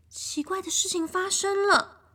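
hushed spooky whisper; mysterious whisper. A narrator's reading. Storyteller whispers to children to build suspense. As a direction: whisper it like a secret. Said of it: "narrator builds mystery".

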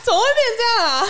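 high, loud laughing disbelief; laughing shock. Real, not acted. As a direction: squeal it through laughter.

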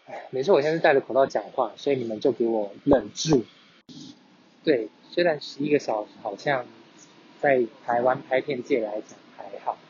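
muffled behind a face mask; talking through a mask. Real, not acted.

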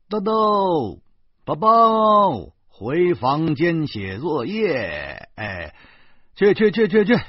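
put-on loud, high call to the children, then rapid shooing. Narrator calls the two children to do homework, shouting. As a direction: shout the kids off to their room, pitched high.

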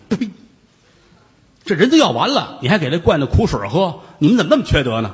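indignant outburst at the stewards; angry. Acted. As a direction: scold them for giving medicine. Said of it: "张世芳急了".

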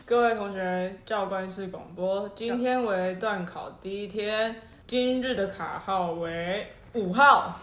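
慢速正经的校园广播语气; 学教官室广播，一字一顿; 教官广播腔. Retold or imitated. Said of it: "来，模仿说。". (模仿教官室广播)

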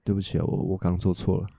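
soft, earnest apology; sincere apology. Shown as a demonstration. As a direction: say it softly and sincerely. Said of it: "诚恳".

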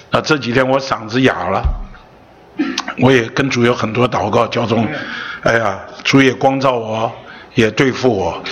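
hoarse, worn-out voice from illness. Real, not acted. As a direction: speak through a hoarse throat.

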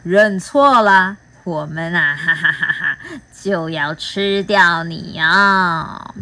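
slow mock-sinister threat with a laugh; hammed-up monster cackle and threat. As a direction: tease the child with menace. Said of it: "妖怪们说".

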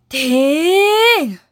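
loud sudden halt; commanding stop. Acted. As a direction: stop the quarrel sharply. 地球奶奶喝止吵架. (大声喝止)

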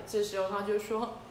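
usual speaking voice

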